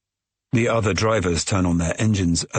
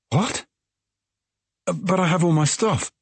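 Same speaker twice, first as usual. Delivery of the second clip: surprised dismay; 11 semitones higher than usual. A narrator's reading. Narrator shocked at leaving car.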